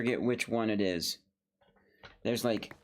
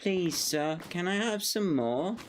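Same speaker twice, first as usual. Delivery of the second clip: higher, meek orphan plea; lightly voiced pleading Oliver; Oliver begging; 5 semitones higher than usual. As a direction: beg like a hungry orphan. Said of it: "since I've seen Oliver".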